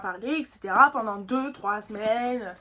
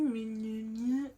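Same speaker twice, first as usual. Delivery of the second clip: mock stammer; 5 dB quieter, much slower than usual. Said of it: "Il commence à bégayer".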